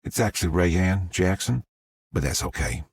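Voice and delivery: put-on smooth Southern accent, words stretched out; a sweet Southern drawl correcting her name; creamy southern drawl. Rayanne corrects the reporter in a creamy Southern drawl. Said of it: "she said in a creamy southern drawl".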